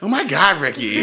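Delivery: high, annoyed groan with a laugh; exasperated wife. Retold or imitated. Bus driver fed up with Ricky again, high exasperated. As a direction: wave him off again. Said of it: "He's like".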